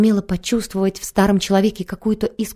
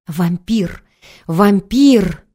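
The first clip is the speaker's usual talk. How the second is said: howling wail of a madman; inhuman howl; much slower than usual. Acted. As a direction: wail it, rising on the second cry. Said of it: "сложившиеся в одно единственное слово завывание".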